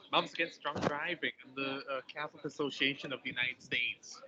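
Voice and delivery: put-on American accent; mock American accent, lightly done; fake American accent. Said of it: "In my fake American accent".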